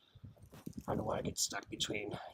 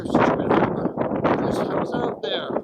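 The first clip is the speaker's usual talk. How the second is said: news anchor voice; 10 semitones higher, 13 dB louder, much slower than usual. Pretend. Mock anchor asks reporter.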